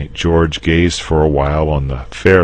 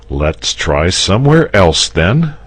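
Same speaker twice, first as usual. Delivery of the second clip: higher, patient and kind; 5 semitones higher, 5 dB louder than usual. Acted. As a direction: keep your patience. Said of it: "said Saint George patiently".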